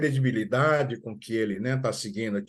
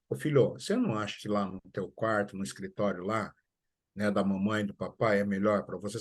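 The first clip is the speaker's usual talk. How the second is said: gentle, softer parent's voice, mildly tender; carinhosa; 3 semitones lower, 5 dB quieter than usual. Retold or imitated. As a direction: coax the son kindly and quietly. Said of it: "Uma forma carinhosa". (jeito carinhoso e mais baixo de mãe)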